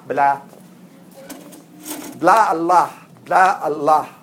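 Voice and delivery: sneering blah blah mockery; mock them dismissively. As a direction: Shaitan scoffing at the believers. Shaitan mocking the believers.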